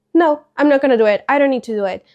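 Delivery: quick, mildly mock-defiant refusal; defiant bad attitude. Teacher retelling a student refusing to remove earbuds, mildly defiant. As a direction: imitate a student's disrespectful backtalk. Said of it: "having this horrible attitude".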